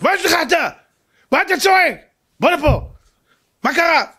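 high-pitched urgent questioning; startled king. Acted. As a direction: demand answers from a screaming stranger, pitched high. King questions the screaming man. (מלך מבוהל חוקר בקול גבוה)

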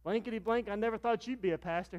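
high, loud astonished exclamation; astonished friend. Retold or imitated. Old schoolmate shocked he became a pastor, high and loud. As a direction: blurt out your shock. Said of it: "He goes".

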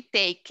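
"take" with an eh-to-ee glide; correct pronunciation. Shown as a demonstration. Teacher confirming the sound for students, "take" clearly modelled with E-I. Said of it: "E, I".

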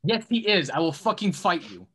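combative insistence. Real, not acted. Back-and-forth argument over Cockney.

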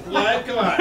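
loud indignant what, come on; mock outrage. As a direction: play the let-down boyfriend.

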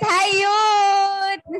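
long, drawn-out group greeting; calling out. Real, not acted. Host coaxes unresponsive youth to answer, calling out slowly. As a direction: hold the words out to get a response.

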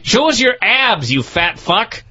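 high imitated yell, falling away at the end; half-hearted impression of a screaming wrestler; mock scream. Co-host repeating Steiner's comeback, mock screaming. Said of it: "Steiner started screaming".

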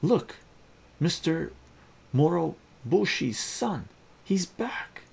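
high, loud excited calling out; excited crowd call. Acted. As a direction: shout the news to the neighbours. Excited crowd spots returning son.

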